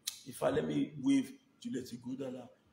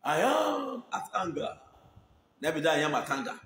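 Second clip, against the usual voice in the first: hammed line. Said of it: "repeating the drama line".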